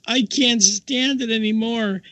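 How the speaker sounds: high, slow imitated outburst; retold exasperated nun. Nun breaking down over the joke, high imitated exasperation. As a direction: draw it out high, as if unable to hold back.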